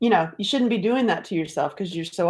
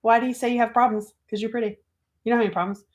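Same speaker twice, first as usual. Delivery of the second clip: typical compliment; 4 semitones higher, faster than usual. Retold or imitated. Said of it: "you know, the typical, like".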